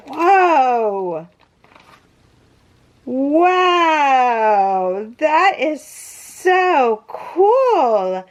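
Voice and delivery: long drawn-out awed wow; real wonder, slow and swooping in pitch; amazed. Real, not acted. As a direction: marvel slowly, stretching each word. Opening a surprise gift, amazed.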